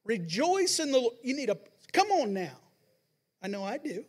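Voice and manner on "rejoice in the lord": loud, slow rallying call to your own soul; self-exhortation. Retold or imitated. Preacher grabbing his own collar, calling his soul to rejoice. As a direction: shake yourself awake with the words. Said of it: "grab your collar to yourself and say".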